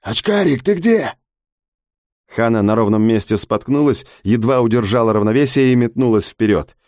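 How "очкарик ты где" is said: high calling voice from the stairwell; distant call. Acted. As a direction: call out from far below.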